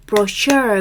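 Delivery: brochure with stress on last syllable -chure. English pronunciation lesson on the word brochure, stress on last syllable of brochure. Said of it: "뒤에 강세가 있습니다".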